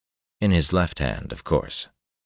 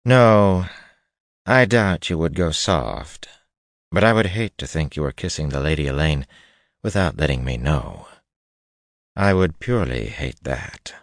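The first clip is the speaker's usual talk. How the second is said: noblewoman voice. Acted. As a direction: voice her like a cold noblewoman. Narrator voices Cheyenne.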